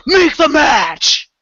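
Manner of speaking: loud, drawn-out angry Arrow growl. Retold or imitated. Retelling an actor's outburst at his boss, gruff Arrow voice. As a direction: imitate a pissed-off actor slipping into his gruff hero voice. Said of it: "slip a little bit into the Arrow voice".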